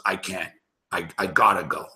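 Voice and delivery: low, quiet imitated mumble of a drunk friend; quiet mock drunk mumble. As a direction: mumble it low and soft under your breath, just a sketch of him. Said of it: "He sort of starts mumbling".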